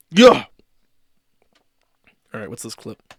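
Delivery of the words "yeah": mock cheer. Cheering after the chant.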